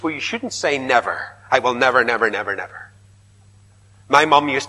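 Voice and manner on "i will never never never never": fading vow. Retold or imitated. Mock vow of never.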